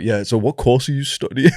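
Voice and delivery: imitating a friend dropping his voice low. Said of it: "suddenly he's like".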